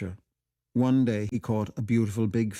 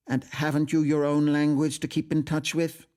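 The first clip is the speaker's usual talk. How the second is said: challenging; 7 semitones higher, 5 dB louder than usual. Acted. Miss Ivors challenging.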